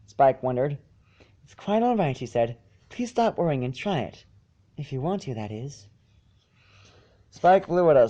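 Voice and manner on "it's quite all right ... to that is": soft pony voice. Acted. Fluttershy voiced in story reading.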